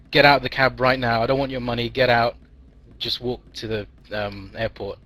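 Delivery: forceful, mildly irate order; mock angry cabbie. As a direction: play a driver throwing out a passenger. Cab driver throws the boy out.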